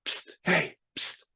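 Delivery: hushed psst to get attention; whisper. Acted. They whisper to you when you're not listening, hushed. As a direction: softly try to catch someone's ear. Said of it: "they're gonna whisper to you like".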